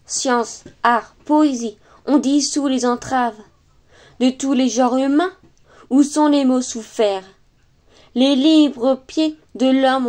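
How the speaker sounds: measured, declaimed verse reading with pauses between lines; poem recitation. Acted. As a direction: recite it as solemn French verse, line by line. Recites Hugo's poem after introduction.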